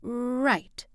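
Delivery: grudging gruff reply; terse gruff agreement; gruffly. A narrator's reading. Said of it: "he said gruffly".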